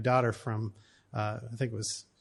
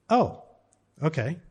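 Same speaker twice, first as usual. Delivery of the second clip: put-on child's reply; 4 semitones higher, 4 dB louder than usual. Daughter's reply in story.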